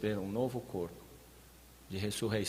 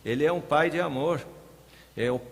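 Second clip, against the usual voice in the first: raised, louder preacher's voice; forceful preaching; 3 semitones higher, 5 dB louder than usual. Real, not acted. Preacher urging the congregation to show living hope, forceful. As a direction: press it home to the congregation with force.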